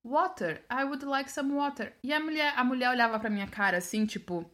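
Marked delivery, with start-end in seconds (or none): 0.0-1.9 "water" with a clear final r; careful textbook "water", r sounded; carefully correct pronunciation. Retold or imitated. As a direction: pronounce "water" neatly with its r. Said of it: "Porque eu pronunciei certinho".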